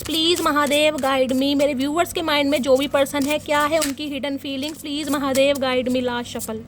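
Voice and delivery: a lightly chanted plea, slowed on the name; prayerful invocation. Acted. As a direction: murmur it like a ritual ask to Mahadev. Repeats invocation during reading.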